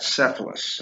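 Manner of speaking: Cephalus said as SEF-lus; pronunciation demo. Shown as a demonstration. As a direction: show how Cephalus starts with an S sound. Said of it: "you pronounce that".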